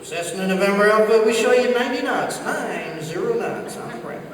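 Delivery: lightly imitated controller, measured and authoritative; presidential voice. Controller answering a small plane, same presidential voice. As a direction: give it official weight, slowing at the end. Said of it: "he's gotta give him that same presidential voice".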